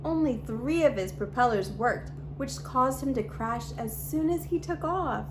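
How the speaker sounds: put-on lively read-aloud storytelling for kids; storybook reading. A narrator's reading. YouTube host reading a picture book to children, bright storytelling. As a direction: read the story to little viewers, expressive and clear.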